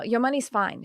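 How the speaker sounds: light imitation of an Australian psychic; Australian accent. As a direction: reassure with a touch of Australian accent. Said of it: "She's got an Australian accent".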